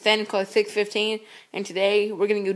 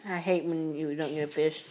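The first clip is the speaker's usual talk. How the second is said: whisper; 2 semitones lower, 6 dB quieter than usual. Real, not acted. Whispering beside the pond.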